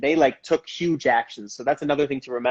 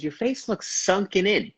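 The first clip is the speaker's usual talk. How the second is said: higher, slow grandma jab; slow, higher mock grandma voice; grandma's blunt remark; 6 semitones higher than usual. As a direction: lightly mimic grandma, deadpan. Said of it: "she goes".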